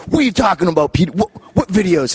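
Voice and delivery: high sing-song put-on Scotty voice; mock Scotty. Retelling to host, voicing Scotty's puzzled reply. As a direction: play the gruff wrestler, confused.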